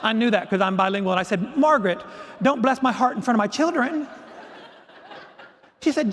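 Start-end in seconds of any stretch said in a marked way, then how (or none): 1.6-4.1 raised-pitch, affronted retort; mock indignant protest. Teacher objects to mentor's pity before the children, mock indignant. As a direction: protest as if embarrassed before the class.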